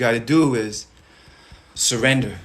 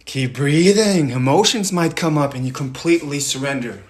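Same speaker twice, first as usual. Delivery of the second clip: forceful guiding; urgent coaching; 3 semitones higher, 5 dB louder than usual. Real, not acted. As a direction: push them to let go. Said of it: "louder coaching push".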